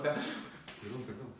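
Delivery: brief apology to someone who scolded you; apologetic reply. Shown as a demonstration. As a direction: apologise as if just told off. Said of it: "y el otro".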